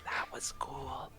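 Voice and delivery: slow, breathless whispered words; mouthed whisper. Acted. Boy secretly mouthing praise to the bard, whispered. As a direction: barely mouth it, no voice. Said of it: "he kinda mouths".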